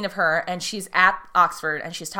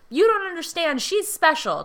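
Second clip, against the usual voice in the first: high, lightly voiced boy pleading; imitating a boy begging the uncle; pleading kid voice; 11 semitones higher, 4 dB louder than usual. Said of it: "And Roger's like".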